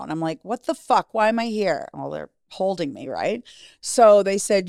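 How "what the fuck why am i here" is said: retold indignant bewilderment, pitched up; bewildered. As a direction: act out waking up confused and put out. Retells bewilderment on hospital gurney.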